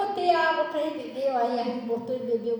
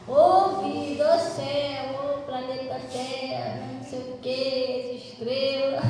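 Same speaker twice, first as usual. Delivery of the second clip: slow, drawn-out comic moaning; mock self-pitying lament; slower than usual. Preacher mimicking someone who keeps thinking negatively, mock lament. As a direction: lament with exaggerated drama, stretching each phrase.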